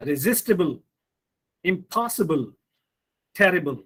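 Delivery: reSIStible, imPOSsible, TERrible; stress before the suffix. Shown as a demonstration. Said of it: "the syllable that comes immediately before these suffixes".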